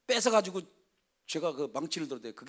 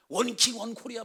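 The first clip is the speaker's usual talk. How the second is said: laughing slogan; 5 semitones higher than usual. Shown as a demonstration. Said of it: "막 이러면서".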